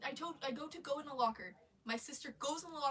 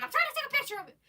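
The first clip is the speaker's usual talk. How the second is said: high, loud insistent; high sister voice; 14 semitones higher, 9 dB louder, much faster than usual. Retold or imitated. Sister explaining the photo, high insistent voice. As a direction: insist it brightly.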